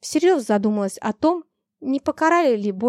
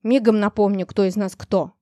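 angry threat. Acted. Master keeps threatening the dragon.

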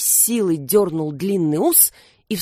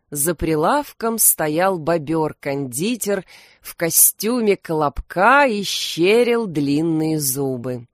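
usual speaking voice

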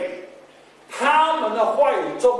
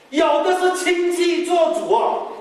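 sing-song; 9 semitones higher, slower than usual. Real, not acted. Preacher sing-song emphasis.

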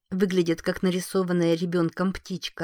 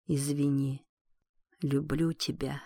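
soft, lower, fading dying voice; faint deathbed whisper; 4 semitones lower, 7 dB quieter than usual. Acted. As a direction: breathe it out, barely there. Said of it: "всё тем же едва слышным шёпотом". (едва слышный шёпот умирающего)

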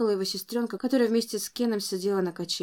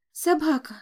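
put-on child calling; 8 semitones higher, 6 dB louder than usual. A narrator's reading. Child voice in story.

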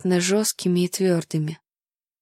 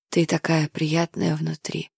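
breathy exhale; 3 semitones lower, 3 dB quieter than usual. Acted. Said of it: "выдохнул мне в шею Ной".

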